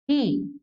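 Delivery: ही as an echoed "hi" breath syllable; visarga pronounced hi. Shown as a demonstration. Teacher showing how the visarga is pronounced, visarga as hi. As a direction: sound the visarga as ही. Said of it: "क्या उच्चारण करेंगे विसर्ग का".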